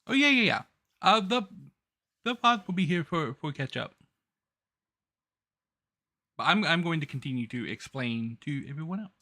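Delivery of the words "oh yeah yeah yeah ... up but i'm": ordinary talk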